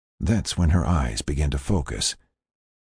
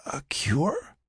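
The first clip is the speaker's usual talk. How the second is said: soft, high, breathy question; confused whisper; 10 semitones higher, 6 dB quieter than usual. Acted. Patient hears of a cure, confused whisper. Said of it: "still confused".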